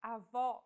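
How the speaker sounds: Avó stressed on an open final O, a-VÓ; open vowel demo. Shown as a demonstration. Teacher shows the open vowel of Avó to learners. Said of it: "stressed and pronounced with open".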